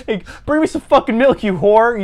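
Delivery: high bratty demand; mock yelling. Son jokingly ordering his mother around, mock yelling. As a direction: yell at mom like a spoiled son. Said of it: "you yell to her".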